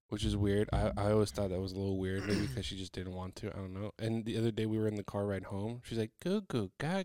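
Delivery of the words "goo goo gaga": put-on high, playful, jokey babbling baby talk. Retelling how a daughter said baby talk in the car: imitating joking baby talk.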